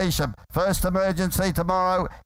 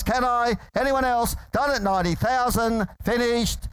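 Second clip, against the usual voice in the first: frantic trading floor shouting; 3 semitones higher, faster than usual. Real, not acted. Auctioneer calling bids.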